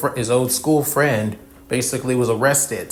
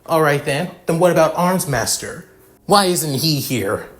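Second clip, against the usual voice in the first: higher-pitched, confrontational questioning; moderately heated comeback; angry challenge; 5 semitones higher, 3 dB louder than usual. Acted. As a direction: demand an answer, slowing on the final question. Angry challenge in acted quarrel.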